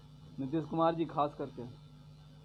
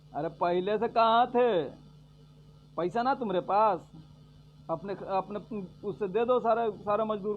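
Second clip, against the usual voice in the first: raised, higher voice of reproach; challenging retort; 4 semitones higher, 4 dB louder than usual. Real, not acted. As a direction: throw the question back at them loudly. Challenges the Congress critics he quoted. (ऊँची आवाज़ में उलाहना)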